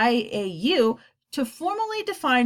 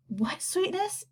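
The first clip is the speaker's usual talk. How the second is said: whispered; 9 semitones higher, 7 dB quieter, slower than usual. A narrator's reading. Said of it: "whispered Isabel".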